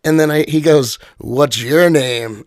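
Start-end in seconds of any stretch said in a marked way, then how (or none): 1.2-2.4 slow, imitated stranger's inquiry; drawn-out question. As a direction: stretch out each word as the stranger.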